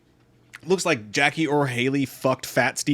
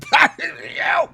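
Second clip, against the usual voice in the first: strained yell; 13 semitones higher, 4 dB louder than usual. Acted. Mock failed shout through damaged throat.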